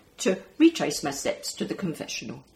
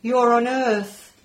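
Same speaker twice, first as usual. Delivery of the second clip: adult voice; 5 semitones higher, 5 dB louder, slower than usual. Acted. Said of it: "said an adult voice".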